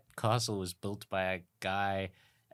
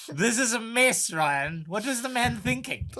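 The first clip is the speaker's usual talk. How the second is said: indignant rant; 9 semitones higher, 3 dB louder than usual. Real, not acted. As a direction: rant in exasperated disbelief, pitched right up. Outraged rant about song choice.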